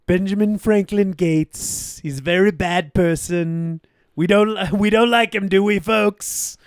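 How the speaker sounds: slow, emphatic rally-speech Trump voice; hammed-up president talking to his crowd; Trump impression. S1 mocks Trump addressing supporters, slow and emphatic. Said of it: "Be like".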